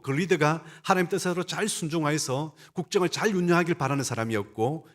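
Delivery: ordinary delivery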